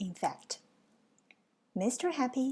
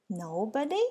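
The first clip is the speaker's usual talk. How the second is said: gasped question. Acted. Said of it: "gasped Mister Happy".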